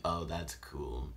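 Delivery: slow breathy whisper. Retold or imitated. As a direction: whisper it slowly. Voices the caller, whispered.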